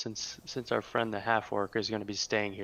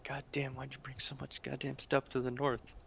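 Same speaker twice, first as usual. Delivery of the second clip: muttered swearing under the breath; 5 semitones higher, 7 dB quieter than usual. Acted. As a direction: grumble the curses quietly to yourself. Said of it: "Kinda swearing on my breath".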